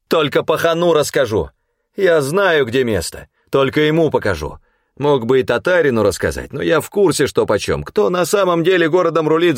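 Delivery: chest out, bargain for the boss; defiant boasting. A narrator's reading. Half-naked prisoner defiantly demanding to see the boss.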